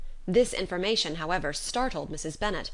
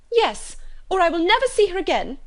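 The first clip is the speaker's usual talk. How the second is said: much higher and louder, a furious mother threatening; shrieking ultimatum; 12 semitones higher, 9 dB louder than usual. Acted. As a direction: cry out the threat in a rage. Mrs Bennet's ultimatum to daughter.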